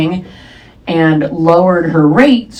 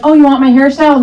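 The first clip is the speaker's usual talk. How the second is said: hairdresser; 8 semitones higher, 4 dB louder, faster than usual. Retold or imitated. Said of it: "She's like".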